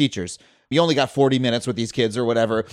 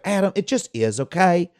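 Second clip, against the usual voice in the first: put-on Southern accent; 3 semitones higher than usual. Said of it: "I just remember this woman's accent".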